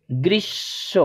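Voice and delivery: careful গ্রীষ্ম; pronunciation. Shown as a demonstration. Teacher to pupils, careful example. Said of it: "গ্রীষ্ম নয়".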